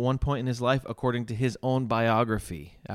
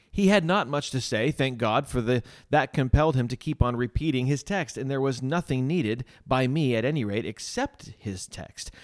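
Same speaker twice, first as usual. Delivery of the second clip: measured, emphatic reading aloud; story reading; 3 semitones higher than usual. A narrator's reading. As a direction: read an old testimony to listeners, landing key words. Reads Spurgeon's written testimony aloud.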